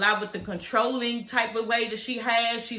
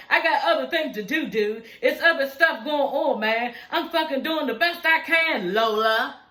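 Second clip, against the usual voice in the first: retold angry outburst; 4 semitones higher than usual. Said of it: "She was like".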